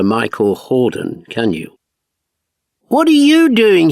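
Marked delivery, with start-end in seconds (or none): 2.9-3.9 high, loud startled question; shocked. Retold or imitated. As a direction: gasp it out in surprise. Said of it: "my shocked self asked".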